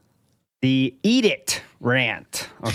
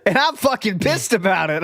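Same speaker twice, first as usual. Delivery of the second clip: higher, mock scolding parent; parent vibes; 4 semitones higher than usual. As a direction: imitate an indignant parent laying down the law. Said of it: "extreme parent vibes".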